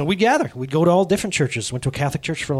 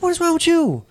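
high-pitched, baffled demand; mock exasperation; 13 semitones higher than usual. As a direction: act out being fed up with a friend. Retold exasperated question to friend.

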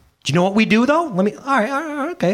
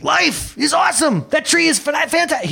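high, whooping cry of delight; exuberant prayer; 12 semitones higher than usual. Retold or imitated. Pastor imitates his pal praying to God, exuberant high shout. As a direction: imitate a friend childlike and thrilled. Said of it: "You know how he prays to God?".

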